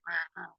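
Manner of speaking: imitated low-key grumble noise; mock grumbling. Grumpy Harry answering a friend's greeting, mock grumbling. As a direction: grumble wordlessly, playing it up a little. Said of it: "He's all grumbly".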